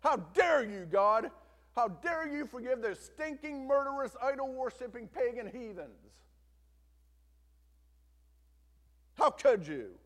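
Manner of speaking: loud, high, enraged yelling at God; furious yelling. Acted. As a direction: rage at God at the top of your lungs. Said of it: "He's yelling at the top of his lungs".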